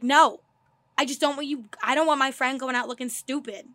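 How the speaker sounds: retold harsh refusal, loud opening no; bitchy bluntness. Retelling how she refused her friend, bitchy and blunt. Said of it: "you sound like a huge bitch".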